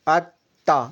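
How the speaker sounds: ات and تا said with a small break between; shadda with a pause. Shown as a demonstration. Teacher repeats the doubled ت for the student. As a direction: double the ت by stopping briefly after ات. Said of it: "اس طرح سے".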